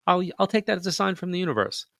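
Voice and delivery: making a deal with wife, pitch way up; emphatic vow. Retold or imitated. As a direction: swear it to her, voice rising. Bargaining with his wife.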